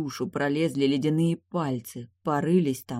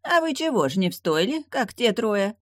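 demon voice; 6 semitones higher than usual. A narrator's reading. Demon voice, pitch raised.

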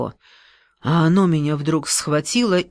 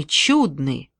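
usual speaking voice

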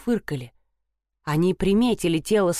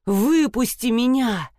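angry; 5 semitones higher, 3 dB louder than usual. Acted. Вырывается, злость.

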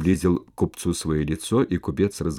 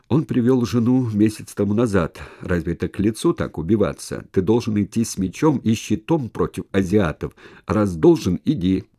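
patter; 4 semitones higher, 5 dB louder than usual. Acted. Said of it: "И вдруг скороговоркой".

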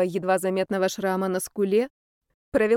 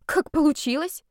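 snorting; 7 semitones higher than usual. A narrator's reading. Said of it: "фыркнул Ярослав".

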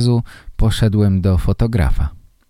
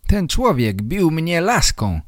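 shouting; 9 semitones higher than usual. A narrator's reading. Photographer accusing the man to the policeman, mild mock shout. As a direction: complain high and aggrieved, lightly acted. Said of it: "krzyczał fotograf".

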